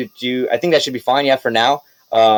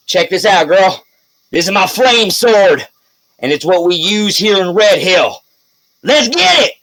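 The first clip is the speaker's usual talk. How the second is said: a bit higher, boastful voice; showing-off mayor; 4 semitones higher than usual. Acted. Mayor showing off his flame sword to Wendlyn. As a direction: brag like you're impressing a girl.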